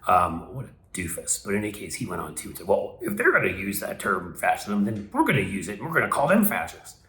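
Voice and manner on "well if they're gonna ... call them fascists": mock a cartoonish commentator's indignation, lightly; Charlie Kirk. Host mocking a pundit's Fox News comeback, light cartoonish impression. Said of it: "sounds like one".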